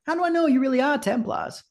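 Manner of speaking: suspicious npc. Acted.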